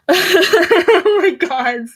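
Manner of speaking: high, loud and very drawn out in disbelief; embarrassed oh my God. Real, not acted. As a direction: stretch it out, cringing at yourself. Laughing at own bad accent.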